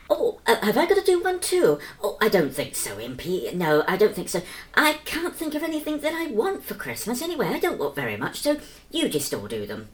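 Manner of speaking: a figure trying to get out of a chore; reluctant Bert. Acted. Bert answers in his own voice.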